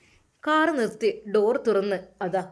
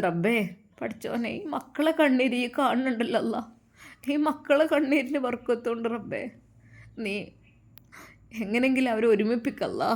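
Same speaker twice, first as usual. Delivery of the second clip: prayer; 2 semitones higher than usual. A narrator's reading. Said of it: "ആ ഉമ്മ ദുആ ചെയ്ത്".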